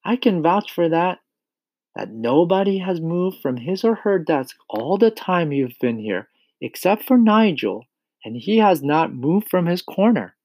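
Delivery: high-pitched teacher standing firm; Miss Honey vouching. A narrator's reading. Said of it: "Miss Honey answered".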